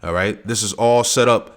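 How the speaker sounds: preaching at full force. Acted. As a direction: preach it up to the congregation.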